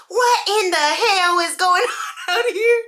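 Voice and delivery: put-on a mother catching kids; angry mom yell. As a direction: mom yelling at noisy kids, laughing. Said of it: "Just like that".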